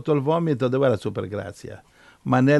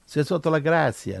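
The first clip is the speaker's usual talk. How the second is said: mock reassuring; 4 semitones higher than usual. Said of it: "Non è che dice".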